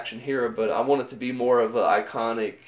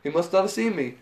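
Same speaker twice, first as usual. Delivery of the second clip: laughing while quoting; 4 semitones higher than usual. Retold or imitated. Homer quoted, laughing while telling.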